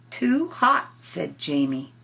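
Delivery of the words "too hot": higher, louder grumble; whiny little boy. Acted. Jamie refusing to nap in the sun, higher whiny boy voice. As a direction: complain like a fussy child.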